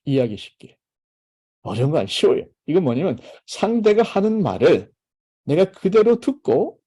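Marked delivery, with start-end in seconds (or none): none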